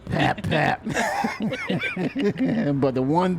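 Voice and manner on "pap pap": puffing sounds, unvoiced; cigar puffs. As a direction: puff on a cigar. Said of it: "cigar in your mouth".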